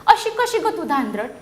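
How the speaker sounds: slow, gentle snail advice; snail scolding. Acted. Snail slowly advising the centipede to walk carefully. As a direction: draw out सावकाश, teaching patience. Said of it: "गोगलगाय म्हणाली".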